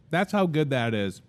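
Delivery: talking with a mouth full. Real, not acted. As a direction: speak around a bite of sandwich. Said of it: "I'm trying not to talk with my mouth full".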